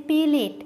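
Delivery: "প্লেট" said as two syllables, "pe-let"; colloquial pronunciation. Shown as a demonstration. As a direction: slip a vowel between p and l in "প্লেট". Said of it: "বিয়ে বাড়িতে বেশি দেখা যায়".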